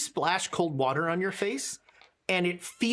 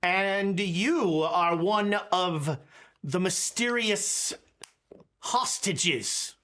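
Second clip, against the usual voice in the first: loud pompous announcement; slower than usual. Acted. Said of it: "You don't need to shout".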